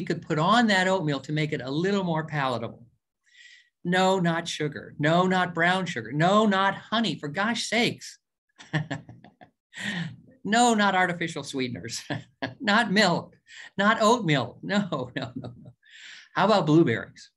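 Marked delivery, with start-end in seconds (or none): 3.8-12.0 mock exasperated refusals. Teasing list of forbidden toppings. 12.3-15.7 laughing. Real, not acted. Laughs while refusing toppings.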